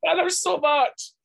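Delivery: high, drawn-out fan gushing. Real, not acted. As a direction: gush adoringly, pitched right up and slow. Gushing about a favourite character.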